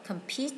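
compete stressed on the second syllable, com-PETE. Shown as a demonstration. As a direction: put the weight on PETE in compete. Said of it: "nhấn âm hai".

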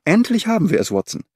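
a sudden triumphant cry of satisfaction; satisfied exclamation. A narrator's reading. Holmes to Watson, finally seeing the link, triumphant exclamation. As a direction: burst out, pleased the chain is found. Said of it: "Holmes entfuhr ein Ausruf der Befriedigung".

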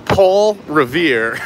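slow, careful Boston accent on Paul Revere; Boston accent try. Shown as a demonstration. Practicing the viewer's Boston name slowly, careful Boston accent. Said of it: "what accent I'm doing".

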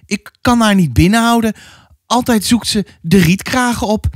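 high, protesting mother's voice; defensive. A narrator's reading. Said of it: "probeerde moeder zich nog te verdedigen". (verdedigend, met hoge stem)

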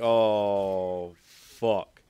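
shouted frustrated swear; loud curse. Retold or imitated. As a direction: blurt it out loud. Quoting own in-game reaction.

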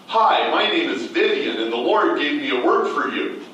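a friendly stranger introducing herself; quoting a stranger. Retold or imitated. A woman greeting him with a prophecy, lightly voiced.

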